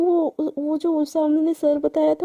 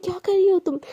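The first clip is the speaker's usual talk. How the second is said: angry snap; 4 semitones higher than usual. Retold or imitated. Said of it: "एकदम गुस्से में".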